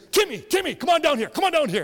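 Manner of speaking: high, loud coach calling out to Timmy; hammed-up coach beckoning a kid. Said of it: "He'd say".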